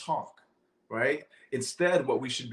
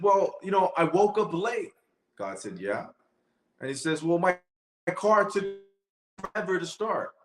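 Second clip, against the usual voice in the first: higher and louder, a retold complaint; whiny complaining voice; 6 semitones higher, 4 dB louder than usual. Person complaining to God about a rough day, whiny and raised. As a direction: lay out the bad day, a bit whiny.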